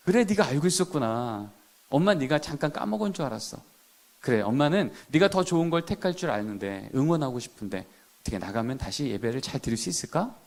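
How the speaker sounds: soft, kind coaxing as a mom; gentle mother. Acted. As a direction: reassure the child softly, like a mother. 엄마가 아이를 다정하게 타이름. (엄마가 아이를 부드럽게 달래는 목소리)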